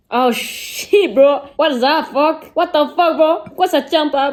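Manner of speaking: hyped American exclamation; American girl voice. Pretend. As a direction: play a loud American girl. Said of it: "j'arrête de, d'être américaine".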